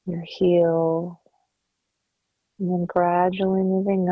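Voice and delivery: calm, unhurried meditation voice with long pauses; guided meditation. Acted. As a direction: guide the listener gently into relaxation, softening at phrase ends. Leads a body scan meditation.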